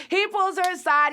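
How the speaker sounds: high, giggly words through a laugh. Real, not acted. Vlogger cracking up while recapping, laughing. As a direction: laugh as you say it. Laughing about the name Sky.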